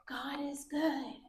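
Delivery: slow, very soft whispery chant; whisper. Shown as a demonstration. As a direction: whisper it slowly to the kids. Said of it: "we're all gonna say this with a whisper voice".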